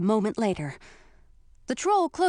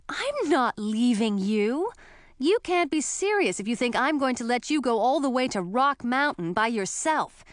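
higher, insistent protest; indignant refusal; 4 semitones higher than usual. Acted. Heroine refusing to leave her betrothed, indignant protest. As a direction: refuse outright, in disbelief.

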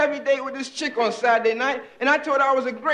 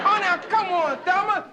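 whiny pleading; 6 semitones higher than usual. Acted. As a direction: beg her like a whiny kid brother. Pleads again, higher.

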